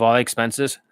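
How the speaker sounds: ordinary talk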